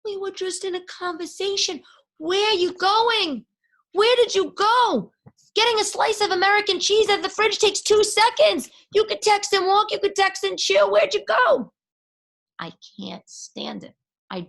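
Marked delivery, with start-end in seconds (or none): 0.0-11.7 high, loud, frantic pleading; high, loud, exasperated mock plea to a vanished texter; frantic abandoned texter. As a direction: demand to know where he went. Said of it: "it's like".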